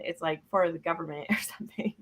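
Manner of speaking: laughing whispered aside. Real, not acted. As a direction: drop to a secret whisper.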